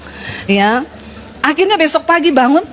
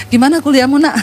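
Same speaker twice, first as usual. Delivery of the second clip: gentle father. Retold or imitated. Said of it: "Ini dia gini".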